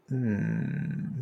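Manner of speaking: low thoughtful hmm; quiet pondering hum; thinking hmm. Real, not acted. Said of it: "maybe a good question".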